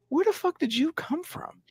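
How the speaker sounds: incredulous. Retold or imitated. Silent disbelieving look voiced.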